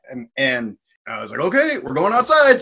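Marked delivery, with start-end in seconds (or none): 1.4-2.6 loud, high retold command; forceful ejection. Bartender grabbed by the hair ejecting a man, forceful. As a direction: act out losing patience with a troublemaker.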